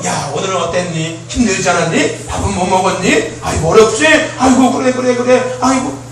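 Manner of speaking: put-on a light take on a mother coaxing her child; fussing mother. Pastor voicing a mother checking on her teen, doting. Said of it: "꼭 엄마가 와서".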